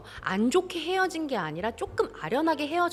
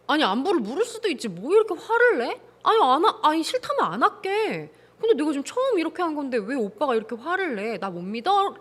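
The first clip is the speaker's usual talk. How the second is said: lightly voiced girlfriend, a touch higher and indignant; defensive girlfriend; 3 semitones higher than usual. Host voices the girlfriend talking back to her boyfriend, mildly indignant. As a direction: play her brushing it off, hurt. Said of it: "라고 나올 것 같아".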